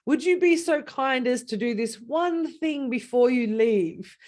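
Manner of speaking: slow, sugary over-polite asking; butter them up with syrupy politeness; overly polite request. Retold or imitated. Client sweetly asking the coach to stay longer, slow and overly polite. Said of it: "the language that they would use, and it's very clever".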